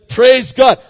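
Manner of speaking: mock praise. Joke of Elijah rejoicing.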